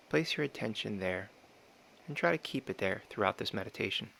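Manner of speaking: calm, measured meditation guide with long pauses; unhurried meditation instruction, phrase by phrase; guided meditation. Real, not acted. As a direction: gently talk them through it, pausing between phrases.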